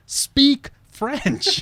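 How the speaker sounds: high, loud imitated yell; man on the metro stairs yells at them, loud mock yell. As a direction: shout it at the passing students. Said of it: "again yells".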